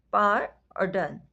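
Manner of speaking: "पार" and "डन" said as two separate beats; two syllables. Shown as a demonstration. Teacher to pupils, splitting pardon into syllables. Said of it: "syllable count बनते हैं टू".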